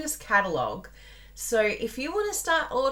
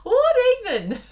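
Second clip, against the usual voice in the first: high, loud burst of disbelief; startled squeal; 10 dB louder than usual. Real, not acted. Crafter caught off guard by her own stamp set, squealing. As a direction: squeak out the question in shock. Laughs at surprise.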